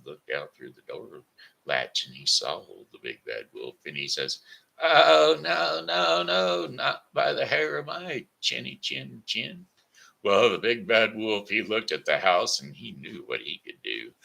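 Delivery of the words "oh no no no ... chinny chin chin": high, loud little pig voice refusing; squeaky little pig. Acted. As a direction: cry out no as a frightened little pig.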